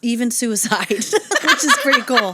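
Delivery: laughing through the words; cracking up mid-sentence. Real, not acted. Laughing while joking about dark things.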